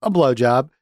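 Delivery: plain retold answer at everyday pitch; imitating a blunt, unbothered reply; matter-of-fact. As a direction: say it as routine information. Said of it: "says it really matter-of-factly".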